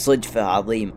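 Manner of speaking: with a laugh. A narrator's reading. Stranger greeting his former wife by chance, laughing. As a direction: laugh first, drop the voice for the words. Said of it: "وقال لي بضحكة".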